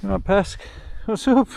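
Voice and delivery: high sing-song voice to a dog; fond high voice for the dog; talking to dog. Real, not acted. Asking his dog.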